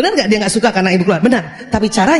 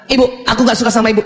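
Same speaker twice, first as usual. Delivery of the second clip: put-on rushed, mildly raised child voice; child's heated complaint; much faster than usual. Child tells mother he dislikes her, heated and fast. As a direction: fire off the complaint quickly, mock-angry. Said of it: "suara, suara".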